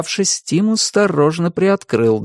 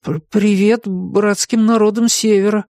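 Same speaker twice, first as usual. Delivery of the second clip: stammering mumble; 8 semitones higher than usual. A narrator's reading. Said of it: "пробормотать".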